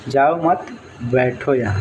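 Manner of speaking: जाओ मत together, बैठो यहाँ set apart; pause after मत. Shown as a demonstration. Teacher repeating the listener's misreading, pause after मत. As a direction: run जाओ into मत, then break. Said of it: "अगला आदमी ये समझ लेता है".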